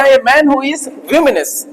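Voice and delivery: slow, stretched words; slow dictation; dictation pace. Shown as a demonstration. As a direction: read slowly word by word. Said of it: "तो क्या होगा".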